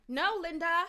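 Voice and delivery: put-on high, loud child's whine with a laugh; little boy protesting. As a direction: whine it like a toddler arguing with mum. Imitating little boy in video.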